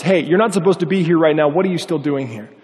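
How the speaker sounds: mild retold call-out. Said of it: "one of the guys calls out".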